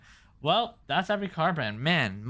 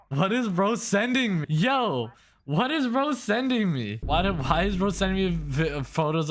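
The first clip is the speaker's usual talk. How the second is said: incredulous; 5 semitones higher than usual. Real, not acted. Stunned by a DM of photos.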